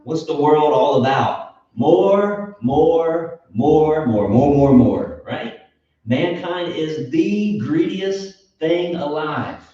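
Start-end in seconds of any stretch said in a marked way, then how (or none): 1.7-5.2 loud repeated demand, starting high and stepping down; hammed-up insatiable craving, piling up the words; mock greedy demand. Voicing the world's endless greed.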